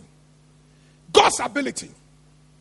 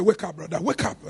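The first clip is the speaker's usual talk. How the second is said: soft wake-up call; 11 semitones lower, 9 dB quieter than usual. Shown as a demonstration. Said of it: "Tell somebody".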